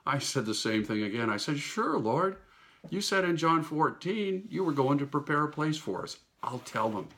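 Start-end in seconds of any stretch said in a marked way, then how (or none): 1.6-7.1 higher, bright eager answer; eager reply. Retold or imitated. Telling the Lord sure, with eager lift. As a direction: chirp it out keen to please.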